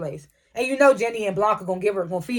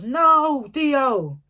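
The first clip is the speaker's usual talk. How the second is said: mock yell, higher, drawn out; half-voiced yell, pitched up; retold yell; 4 semitones higher than usual. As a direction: call it out as an imitated cry of protest. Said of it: "Davis yells".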